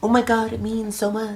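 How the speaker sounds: very high, overcome, emotional gushing delivery. Imitating emotional buyers who care about a maker's story: imitating an emotional buyer. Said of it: "a group of people out there who are like".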